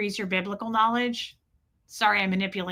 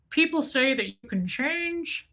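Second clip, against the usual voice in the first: Ted Levine; 3 semitones higher than usual. Retold or imitated. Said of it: "He's like the prison guard".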